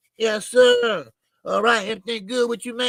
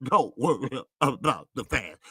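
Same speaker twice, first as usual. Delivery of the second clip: laughing quote; 9 semitones lower than usual. Retold or imitated. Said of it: "Terrence Crawford".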